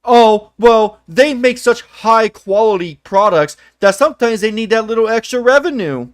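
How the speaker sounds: lightly voiced smug apologist; a hint of a fanboy making excuses; mock fanboy excuse. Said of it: "you're gonna find a way to excuse it".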